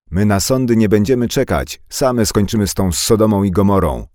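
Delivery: high, loud furious shout. Acted. Anka shouting back at the carpenter, high and loud. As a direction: scream defiance from the steps. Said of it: "krzyknęła Anka".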